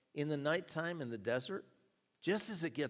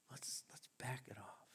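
gentle; 3 semitones lower, 13 dB quieter than usual. Retold or imitated. Coach easing the runner down.

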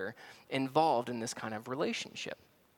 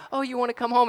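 cooing lady; 8 semitones higher, 4 dB louder, faster than usual. Retold or imitated. Cashier repeats offer.

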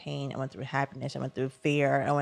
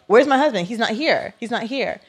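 higher-pitched anxious protest; retold panic; 4 semitones higher, 4 dB louder than usual. Drugged patient asks staff for her husband, retold panic. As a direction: act out mild alarm at someone missing.

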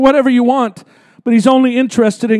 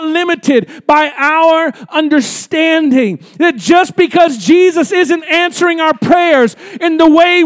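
full-force preaching; 3 semitones higher than usual. Acted. Pastor declaring Jesus' power to the congregation, full-force preaching. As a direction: hammer each phrase to the church.

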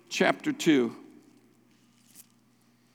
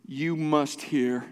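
"must" drawn out slowly and deliberately; slow right down, weight on "You must hear"; earnest exhortation; much slower than usual. Real, not acted. Pastor exhorting church to hear, earnest slow emphasis. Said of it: "Everything within me is exhorting you".

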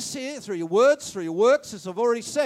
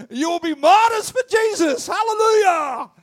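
loud, higher mock shout of the parents; mock parents' outcry; 6 semitones higher, 11 dB louder than usual. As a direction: ham up the shocked parents. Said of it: "They don't wanna hear that".

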